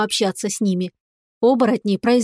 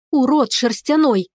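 a touch of angry scorn, slowed; angry outburst; 2 semitones higher than usual. Acted. Witch girl mildly cursing the fleeing cat. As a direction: mildly fling the insult after him. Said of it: "в сердцах бросила девушка вслед коту".

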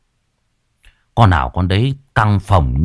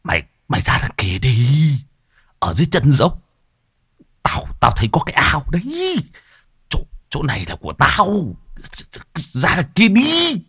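mild scolding; 7 semitones higher than usual. Acted. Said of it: "Thầy quay sang quát".

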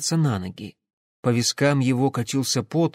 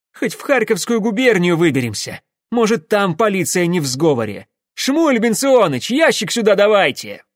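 loud, raised, urgent voice; desperate calling out; 7 semitones higher, 6 dB louder than usual. Acted. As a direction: call to a companion across a standoff. Desperate engineer calls to companion. (громкий отчаянный призыв)

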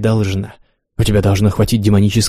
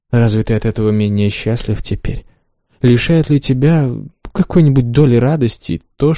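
lightly raised, a hint of the haughty mistress; a lightly voiced teasing lover; Wanda voiced; 3 semitones higher than usual. Wanda's lines in reading.

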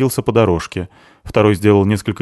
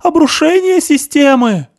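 high, loud yell; yelling at the boss over the noise; shouting over a siren; 12 semitones higher, 5 dB louder, slower than usual. Acted. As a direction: bellow to be heard over the alarm. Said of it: "прокричал Пётр, пытаясь переорать сирену".

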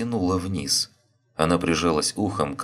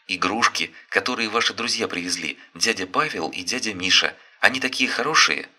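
put-on higher, bright child voice; cheerful child; 5 semitones higher than usual. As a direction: kid explaining eagerly. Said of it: "детские голоса".

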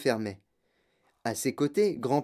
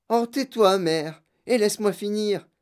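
raised, impatient brush-off; irritated retort; 4 semitones higher than usual. Acted. Daughter silencing mother while chewing, irritated. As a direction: cut the other person off impatiently.

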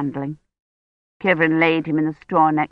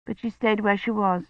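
usual speaking voice

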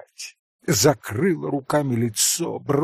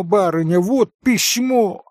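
higher and louder, gleeful and panting; joyful breathless cry; 8 semitones higher, 6 dB louder than usual. A narrator's reading. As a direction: burst in with the news. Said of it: "восклицала она весело и запыхавшись".

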